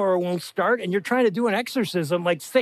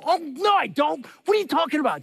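high-pitched raised-voice denial; defensive yelling; 6 semitones higher than usual. Retold or imitated. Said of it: "Why am I yelling?".

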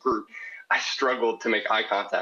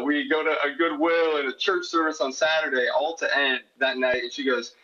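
normal talking voice

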